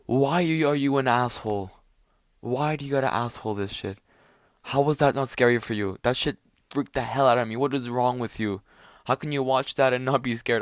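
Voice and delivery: worked-up, incredulous questioning of a friend; exasperated disbelief. Retold or imitated. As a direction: demand an answer in disbelief. Retold outburst at unscared friends.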